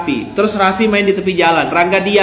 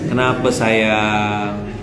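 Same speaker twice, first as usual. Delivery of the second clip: tender wife; 7 semitones lower, much slower than usual. Pretend. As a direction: coo it gently to calm him. Wife soothing angry husband.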